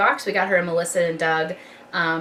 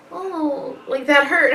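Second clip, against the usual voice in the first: put-on toddler voice; 7 semitones higher, slower than usual. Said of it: "she goes".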